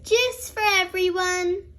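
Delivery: cheerful, sing-song call out; merry call. Acted. Granny brings the juice: merry call. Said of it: "calls Granny Pig merrily".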